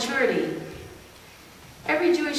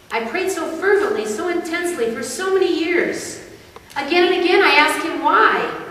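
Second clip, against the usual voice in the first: higher, louder, aching plea with halting breaks; anguished questioning; 5 semitones higher, 4 dB louder than usual. Acted. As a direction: cry out in frustrated anguish, faltering midway. Character anguished over unanswered prayers.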